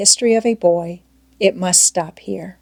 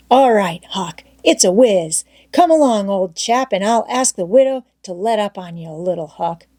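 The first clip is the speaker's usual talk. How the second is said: Tom Sawyer's voice. Acted. Tom coaxing Huck to stay, eager boyish voice. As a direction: pitch up into a keen young boy.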